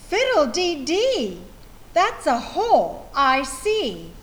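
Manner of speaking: cried out. Acted. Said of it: "cried Missus Wishy-Washy".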